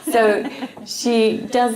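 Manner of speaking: real laughter lingering in the voice; laughing. Real, not acted. Speaker returns to the story after a quip, laughing. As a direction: say it through the tail of a laugh. Recovering from laughing at own joke.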